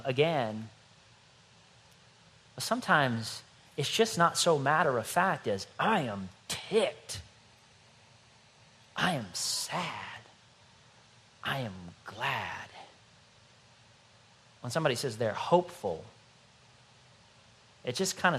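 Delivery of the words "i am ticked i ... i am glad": slow flat listing. Acted. Flat matter-of-fact feelings listed.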